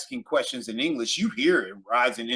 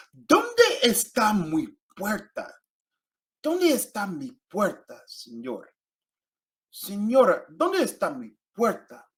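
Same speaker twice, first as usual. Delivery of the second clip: slow, drawn-out "¿Dónde está mi puerta?" with a rise; slow, careful asking for the gate; slow model phrase; 6 semitones higher, slower than usual. Shown as a demonstration. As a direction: stretch "¿Dónde está mi puerta?" slowly like a lost traveler. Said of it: "teacher model phrase".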